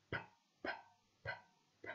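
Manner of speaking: "P, p, p, p" as separate voiceless pops; isolated p sounds. Shown as a demonstration. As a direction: pop "p" four times, clipped. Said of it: "Quelle est la lettre qui fait ce son?".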